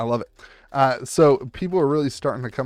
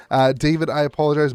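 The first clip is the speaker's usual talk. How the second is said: raspy, worn-out voice; talking through a strained, tired throat; hoarse voice; 2 semitones higher, 7 dB louder, faster than usual. Real, not acted. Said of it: "My voice is gone".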